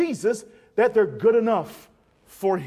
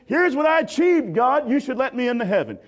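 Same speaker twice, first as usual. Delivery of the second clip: proud, louder claim to God; boastful plea; 2 semitones higher, 4 dB louder than usual. Retold or imitated. Sinner presenting his resume to God: mild boastful plea. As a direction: brag to God about your record. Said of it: "coming before God with your resume".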